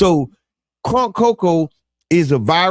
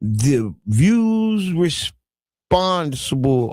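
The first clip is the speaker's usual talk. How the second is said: slow announcer read; much slower than usual. Acted. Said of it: "Oh, no, I take it back".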